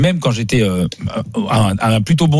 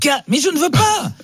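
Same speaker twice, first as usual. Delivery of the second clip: mock whine. Comic refusal.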